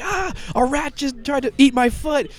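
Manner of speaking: high, panicked mock shriek about a rat; mock freak-out. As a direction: squeal it like a rat just bit you. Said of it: "Harley freaks out".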